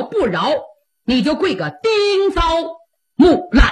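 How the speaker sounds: an emperor rebuking his brother-in-law, measured and stern; a touch of a stern emperor; mild imperial scolding. Acted. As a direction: scold him from the throne without shouting. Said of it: "他把龙胆啪的一拍".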